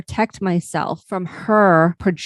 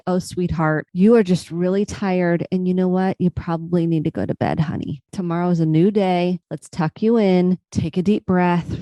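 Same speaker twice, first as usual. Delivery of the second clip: nurturing self-talk. Retold or imitated. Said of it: "nurturing self rather than my inner critic come on and say".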